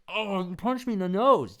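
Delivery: high, loud cry of pain; hammed-up hurt whine; mock pained yelp. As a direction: squeal like you just got punched in the nose. Future self punched, acted cry.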